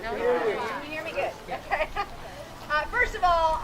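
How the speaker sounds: muffled speech through a mask; through a face mask. Real, not acted. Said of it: "talking through the mask".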